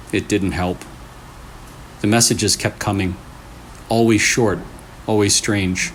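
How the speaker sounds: creepy story narration. A narrator's reading. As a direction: draw the listener into a spooky tale. Reads a creepy story aloud.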